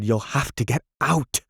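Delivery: cracking upward in despair; pleading command that breaks high; rising desperation. A narrator's reading. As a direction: voice climbs high on out. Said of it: "speaking with torturous intensity".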